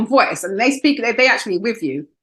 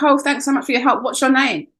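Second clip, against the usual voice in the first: higher, put-on posh caller voice; posh old doctor; 7 semitones higher than usual. Doctor on the phone thanking her, mock posh.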